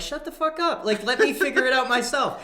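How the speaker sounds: high, loud irritated snap; annoyed retort. Retold or imitated. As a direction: bite back at the cheering. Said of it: "I'm like".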